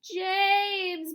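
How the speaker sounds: high, loud bawled name. A narrator's reading. Centipede bawling to James for help. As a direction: bawl for help. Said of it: "bawled the centipede".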